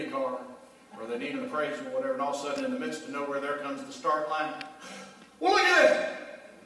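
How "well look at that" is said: high, slow, delighted gasp of discovery; mock surprise. Preacher imitating a CarMax commercial customer, high mock surprise. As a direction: play the amazed ad customer. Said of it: "have you seen those commercials for, uh, CarMax?".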